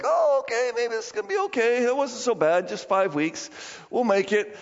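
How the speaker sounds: a touch of relieved "maybe it's okay"; mildly hopeful reassurance. Retold or imitated. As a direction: imitate people lightly talking themselves into optimism. Voicing congregation's relieved hope.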